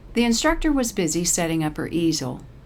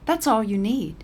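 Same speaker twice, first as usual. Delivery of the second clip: insisting; 5 semitones higher, 3 dB louder than usual. A narrator's reading. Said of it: "the woman insists".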